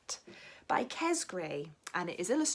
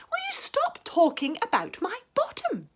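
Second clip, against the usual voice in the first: high, loud exasperated protest; annoyed cat; 12 semitones higher, 5 dB louder than usual. Acted. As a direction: snap at the dog to drop it. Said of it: "said the cat".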